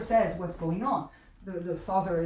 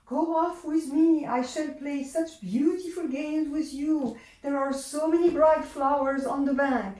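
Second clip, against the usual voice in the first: luring Earl King; 4 semitones higher than usual. Acted. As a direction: lure the child in sweetly. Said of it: "The Earl King".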